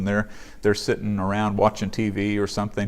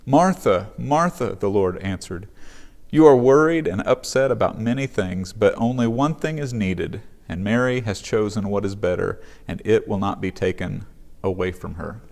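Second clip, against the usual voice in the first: scripture reading. Acted. Pastor reading Luke to the congregation, steady scripture reading. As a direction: read the passage out clearly, like a lectern reading. Reads the scripture passage aloud.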